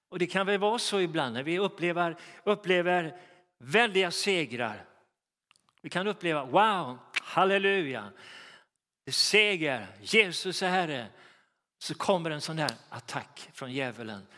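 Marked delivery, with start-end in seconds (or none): 6.5-11.1 loud, joyful victory cry; excited. Retold or imitated. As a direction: celebrate the win with a shout of praise. Preacher acts out joyful victory.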